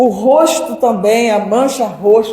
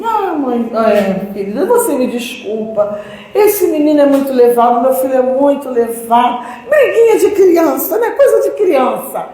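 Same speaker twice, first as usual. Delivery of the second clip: dismissive mock sweetness; 2 semitones higher than usual. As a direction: play down the beating with a light laugh. Other mother downplays the fight.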